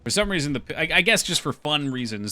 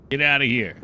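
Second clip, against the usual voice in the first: shooing; 4 semitones higher, 4 dB louder, slower than usual. Real, not acted. Shooing birds away.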